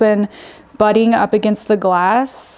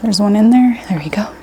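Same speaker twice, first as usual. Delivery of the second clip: whispering. Real, not acted. Spots a shrimp.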